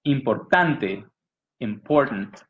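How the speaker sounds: "Importante" stressed on "tan", "important" stressed on "por"; contrasting stress. Shown as a demonstration. Teacher contrasting Spanish and English stress on one word. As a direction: shift the stress between the two words. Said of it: "they typically have opposite stress".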